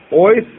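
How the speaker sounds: Ойс said firmly as the main stressed syllable; primary stress. Shown as a demonstration. Teacher explaining the prefix to students, primary stress on Ойс. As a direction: put the full accent on Ойс. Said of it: "основное".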